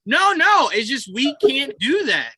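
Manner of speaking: imitating Andrew. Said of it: "And he's like, No".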